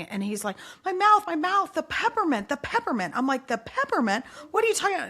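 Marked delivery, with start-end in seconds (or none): 0.8-3.1 imitating panicked kid. Son burning from pepper spray, mildly imitated panicked wail. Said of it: "and he's screaming". 3.5-5.1 echoing the word peppermint as a puzzled question, pitch jumping higher at the end; confused mom repeating peppermint back. Retold or imitated. Mom confused by son's peppermint claim, puzzled question.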